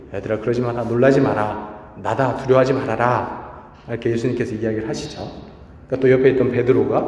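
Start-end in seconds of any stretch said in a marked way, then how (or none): 0.1-3.7 slow, slightly softened reassurance; lightly acted, unhurried calming of frightened followers; calming Jesus. Jesus soothing his panicked disciples, calm and slow. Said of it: "막 난리가 나니까 예수님이".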